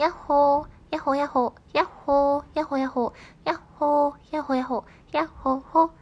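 bouncy repeated yoo-hoo, alternately punched and lighter; cheery calling out. Acted. Host reading a listener's hello chant, cheery calling out. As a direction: sing out each hello with a lift.

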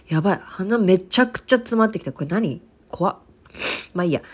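stuffy nasal voice; blocked nose. Real, not acted. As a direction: talk through a stuffed nose.

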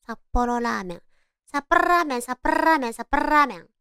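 札幌ラーメン with the r of ラーメン rolled hard. Shown as a demonstration. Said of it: "札幌ラーメンって練習してみて".

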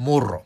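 もろ with a trilled r; rolled r. Shown as a demonstration. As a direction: roll the r in もろ. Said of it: "巻き舌は大丈夫".

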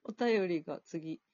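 talking while chewing warabi mochi; words round a bite of food; mouth full. Real, not acted. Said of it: "わらび餅を食べながら喋っています".

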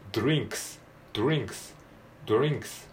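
ドリンクス with every consonant carefully sounded; careful drill pronunciation. Shown as a demonstration. Teacher drilling consonant clusters for learners, carefully articulated. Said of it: "細かくはやんないですけれども".

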